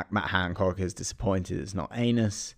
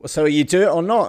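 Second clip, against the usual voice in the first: loud, high-pitched demand to end the squabble; exasperated outburst; 10 semitones higher, 9 dB louder than usual. Acted. Caterpillar to bickering presenters, exasperated shout. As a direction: cut in loudly, fed up with their bickering.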